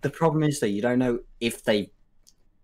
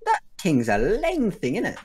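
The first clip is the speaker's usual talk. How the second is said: roadman; 8 semitones higher than usual. Acted. Teaching Americans what roadmen sound like, roadman. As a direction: stretch it out like a roadman. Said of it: "what roadmen sound like".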